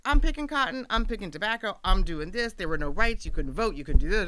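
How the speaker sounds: put-on a father ranting loudly about the old days; riled-up father. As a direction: mimic dad getting worked up. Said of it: "He's like".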